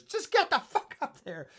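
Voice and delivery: high, drawn-out urgent yell; mock movie yell. Acting out film character's line.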